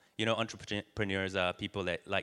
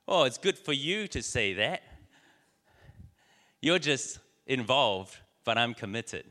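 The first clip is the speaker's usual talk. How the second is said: pig's retort; 3 semitones higher, 5 dB louder than usual. Acted.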